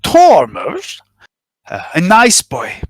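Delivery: a lightly voiced nervous informant, spilling his story; nervous smuggler confessing. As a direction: talk like a worried smuggler who finally confesses. GM continues smuggler NPC monologue.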